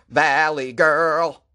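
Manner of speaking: drawn-out mock Valley girl accent. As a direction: stretch it slowly like a Valley girl. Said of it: "The Valley accent is ranked forty-sixth".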